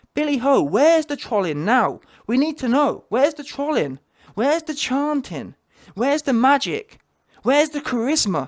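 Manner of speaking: mock jeering, heckling shouts. Recalling watching a match on tv, the speaker retells a shout at the tv. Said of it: "I was shouting".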